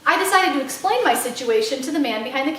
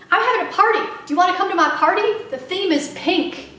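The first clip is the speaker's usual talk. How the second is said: put-on little girl voice; 5 semitones higher than usual. Little girl Sweetie Pie.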